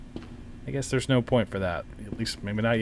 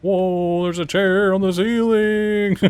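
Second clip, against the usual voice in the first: amazed exclamation; 7 semitones higher, 5 dB louder, slower than usual. Real, not acted. Sees chair on ceiling.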